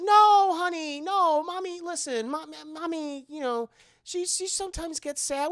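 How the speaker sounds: high-pitched soothing dad; acted reassurance. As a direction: hurry to comfort the child. Dad reassures sad child.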